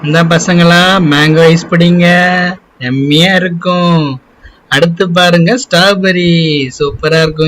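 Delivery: cheerful ice cream vendor. Acted. Vendor selling to the children.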